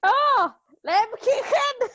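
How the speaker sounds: Lebkuchen run together, high-pitched, German CH; quick high Lebkuchen with the ich-sound. Shown as a demonstration. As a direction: blurt Lebkuchen triumphantly in one go. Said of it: "just faster".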